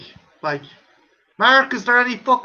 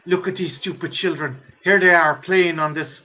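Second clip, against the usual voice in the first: Donald Pleasance; 6 semitones lower than usual. Retold or imitated. Spirit in a water safety advert watching children, low mock-sinister delight. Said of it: "he's pure fucking delighted".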